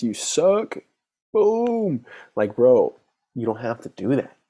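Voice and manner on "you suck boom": high, loud jeering put-down; mock harsh critic. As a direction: sneer it like a cruel inner voice. Inner critic's harsh verdict.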